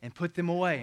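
a dad losing patience with his son; getting angry. Retold or imitated. Stern father raising his voice at his son. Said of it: "now I'm getting angry".

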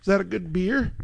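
lightly voiced child asking Daddy; chirpy little daughter. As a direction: mimic a small child's high question. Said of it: "She's like".

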